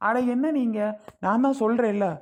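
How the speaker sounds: exasperated outburst. Acted. Son-in-law losing patience with his mother-in-law, loud and exasperated. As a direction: throw up your hands and raise the voice.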